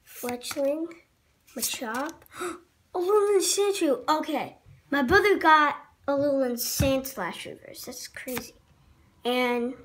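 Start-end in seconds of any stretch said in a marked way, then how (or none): 2.4-4.1 gasping, higher and brighter; gasp, then name the card; surprised gasp. Real, not acted. 7.9-8.5 hushed whisper. Real, not acted. Unvoiced aside.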